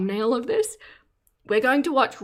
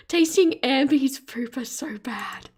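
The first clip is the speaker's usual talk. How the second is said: barely straight-faced; 4 semitones higher than usual. Real, not acted. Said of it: "can't say this with a straight face".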